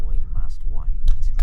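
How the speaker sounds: low, drawn-out dragon voice; menacing purr. A narrator's reading. Hookfang circling little Toothless, slow menacing purr. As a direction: purr it slowly as a threat. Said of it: "purred Hookfang menacingly".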